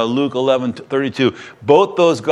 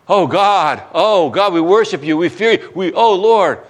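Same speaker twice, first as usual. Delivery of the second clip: high, fervent cry of praise; awed worship; 5 semitones higher, 3 dB louder than usual. Retold or imitated. Sailors worshiping God after the storm stops, fervent. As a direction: pour out awed devotion.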